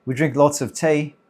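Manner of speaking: lightly faked British accent; mock British accent. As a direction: try a bad, playful British accent. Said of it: "like a British accent with the T".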